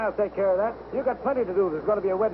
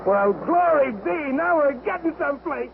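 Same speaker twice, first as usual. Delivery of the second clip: delighted; 5 semitones higher, slower than usual. Acted. Happy news she left home.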